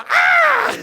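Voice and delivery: loud, high mock scream; jeritan lihat kecoa. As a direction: shriek as if spotting a cockroach. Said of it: "itu mamamu lagi lihat kecoa". (jeritan melengking pura-pura)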